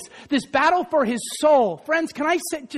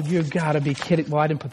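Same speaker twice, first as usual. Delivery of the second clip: usual speaking voice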